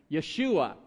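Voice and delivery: Yeshua said as "YEH-shoo-ah", plain and clear; Hebrew name. Shown as a demonstration. Pastor naming the old Hebrew name, plain and clear. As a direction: introduce Yeshua gently. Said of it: "there was this name".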